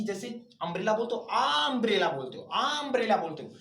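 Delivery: आ अम्ब्रेला with the आ leaned on before the noun; stressed article. Shown as a demonstration. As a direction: lean on आ in आ अम्ब्रेला to show the article. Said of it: "vowels और consonant में होता है". (आ अम्ब्रेला में आ पर ज़ोर)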